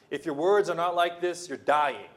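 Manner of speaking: loud preacher's warning; firm warning. Acted. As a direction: declare it firmly. Repeated warning, first take.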